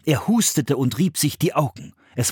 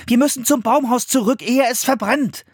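high-pitched urgency; urging; 11 semitones higher than usual. A narrator's reading. Philipp urging them back to the treehouse, urgent. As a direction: press the point anxiously. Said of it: "drängte Philipp".

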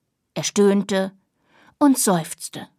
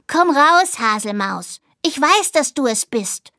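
high, loud playful call toward the bush; playful call to a friend in the bushes; 3 semitones higher, 4 dB louder than usual. Acted. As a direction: call your hiding friend out, teasing. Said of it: "rief er in Richtung Busch".

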